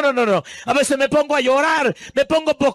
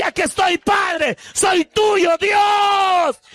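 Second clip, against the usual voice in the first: fervent prayer; 7 semitones higher, much slower than usual. Acted. Acted prayer of surrender.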